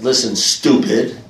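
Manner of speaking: drawn-out "Listen, stupid." with a teasing edge; slow blunt put-down. Shown as a demonstration. Sponsor teasingly scolding the newcomer, slow and blunt. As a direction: lean on "stupid" slowly, mock gruff.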